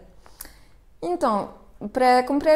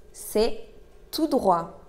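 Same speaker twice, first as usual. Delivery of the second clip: word by word; slower than usual. Shown as a demonstration. Teacher models the answer to directions, word by word. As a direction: pause between C'est and tout droit.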